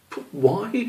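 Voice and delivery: high, stumbling, slowing as he loses count; a confused little kid counting on his fingers; flustered young squirrel. Acted. Squish trying to work out his own long name, flustered. Child voice again.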